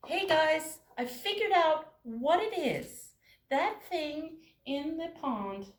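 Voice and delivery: high, loud eager mouse announcing news; squeaky thrilled little mouse; excited mouse. Acted. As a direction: burst in with a big discovery. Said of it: "And it said".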